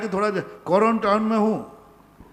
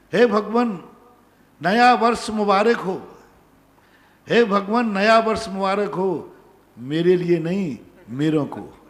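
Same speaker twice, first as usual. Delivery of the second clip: poem recitation. Acted. Monk reciting his new year poem to devotees, poem recitation. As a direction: recite it line by line, with pauses.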